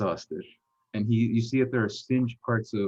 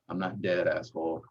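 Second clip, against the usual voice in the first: subdued, lightly voiced wounded construct; low deep voice; 3 semitones lower than usual. Injured Rubbish answers his friend, low deep voice. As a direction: keep it low and unhurried. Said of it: "coming from a low, deep voice".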